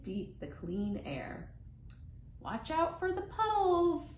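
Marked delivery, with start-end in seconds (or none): 2.4-4.1 lightly voiced mother calling out, higher; a hint of a mother calling her kids; mama hollering. Mother warns the kids, mild higher holler. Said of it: "Mama hollers".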